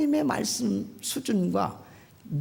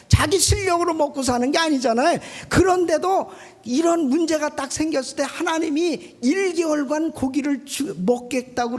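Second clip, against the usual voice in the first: preaching loudly; 4 semitones higher, 4 dB louder than usual. Real, not acted. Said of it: "preaching at full force".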